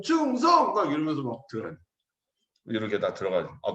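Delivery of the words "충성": high, loud, half-baked military salute; clumsy salute. Retold or imitated. Recruit saying goodbye, clumsy mock salute. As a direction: imitate a green recruit's awkward salute. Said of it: "그러면 어설픈".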